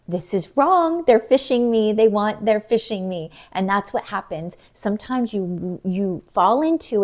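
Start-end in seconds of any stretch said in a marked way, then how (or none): 0.1-3.3 a mock shocked husband; alarmed realization. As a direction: catch on to the scam. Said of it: "he was like".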